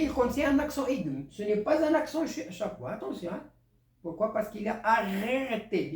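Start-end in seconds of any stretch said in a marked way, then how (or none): 4.8-5.9 "arrêté" with a long, held R; double R stressed. Shown as a demonstration. Teacher explaining the two Rs, R held long in "arrêté". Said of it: "Il y a deux R".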